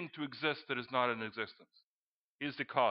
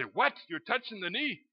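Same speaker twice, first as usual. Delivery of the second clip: mock indignation, jumping higher on the accusation; outraged relative; 5 semitones higher than usual. Preacher imagining an uncle walking in on him, mock outrage. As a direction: lightly act a scandalized uncle.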